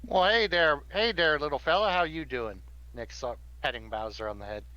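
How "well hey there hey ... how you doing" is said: put-on Southern accent. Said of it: "having to hear this accent".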